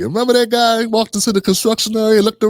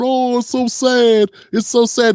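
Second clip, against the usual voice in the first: mock grief; 5 semitones higher than usual. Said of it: "people going".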